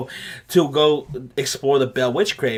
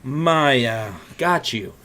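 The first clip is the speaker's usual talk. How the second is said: soft, lower creepy voice; low and slow like an old creep; creepy owner addressing the young boy; creepy old man; 5 semitones lower, 4 dB quieter, slower than usual. Retold or imitated. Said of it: "And he goes".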